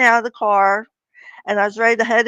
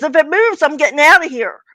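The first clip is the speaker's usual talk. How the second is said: mock-scared brother; 6 semitones higher, 5 dB louder than usual. Brother's scared joke, voiced.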